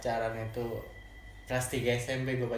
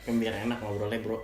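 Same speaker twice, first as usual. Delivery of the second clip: cigarette in mouth. Real, not acted. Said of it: "sambil ngerokok".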